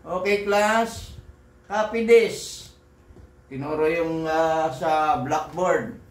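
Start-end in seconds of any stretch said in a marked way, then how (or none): 0.0-2.7 imitating teacher. Recalling a school teacher telling the class to copy, slow mock command. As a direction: drag out a lazy classroom order. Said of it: "sasabihin nung teacher namin".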